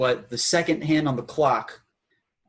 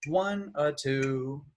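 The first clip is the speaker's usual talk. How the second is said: dotted rhythm count; much slower than usual. Shown as a demonstration. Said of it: "example of this rhythm right here".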